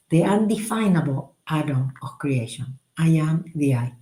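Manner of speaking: measured, meditative mantra reading; prayer recitation. Acted. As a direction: recite it as a calm devotional prayer. Reads the prayer in full.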